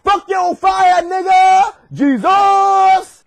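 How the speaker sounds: high, drawn-out triumphant yell; defiant shout. Acted. God answering the men in the fire, defiant shout. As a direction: burst in shouting with bravado.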